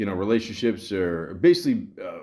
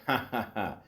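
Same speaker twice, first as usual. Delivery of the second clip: mock "ha ha ha"; imitated laughter; 7 dB quieter than usual. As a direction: laugh out a retold written chuckle. Retells her typed laughter in joke.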